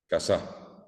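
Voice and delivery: "casa" repeated as casÁ, final A stressed; stress on last syllable. Shown as a demonstration. Teacher repeats the moved accent, "casa" stressed on the end. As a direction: put the weight on the SA of "casa". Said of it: "en la S A pongo la A".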